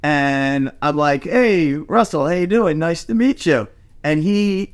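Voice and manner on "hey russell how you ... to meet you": higher-pitched, mildly eager hello; retold friendly greeting. Guest at a dinner greets the actor, retold friendly hello. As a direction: imitate an upbeat first-meeting greeting.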